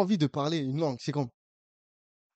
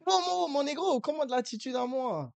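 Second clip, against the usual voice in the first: imitant l'attitude; 10 semitones higher than usual. Retold or imitated. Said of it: "tu me donnes l'attitude".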